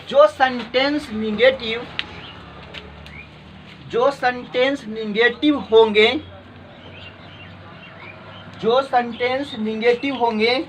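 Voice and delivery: measured classroom dictation. Real, not acted. Teacher dictating a note to students, measured dictation.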